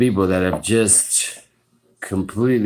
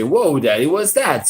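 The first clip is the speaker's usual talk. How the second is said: lightly voiced child; 7 semitones higher than usual. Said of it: "look up and say".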